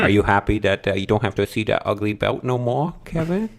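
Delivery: put-on teasing baby talk; mock baby-talk question. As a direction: put on a babyish voice to needle a friend. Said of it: "saying it in a fucking baby voice".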